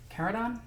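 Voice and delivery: Caradon as "KAIR-uh-don", rising; questioning pronunciation. Shown as a demonstration. Host unsure of the sector's name, questioning Caradon as "KAIR-uh-don". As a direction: try Caradon with a "care" first syllable, as a question. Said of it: "don't know how they're supposed to pronounce this".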